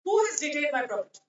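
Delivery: lightly voiced indignant call. A narrator's reading. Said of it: "One of these gentlemen called out".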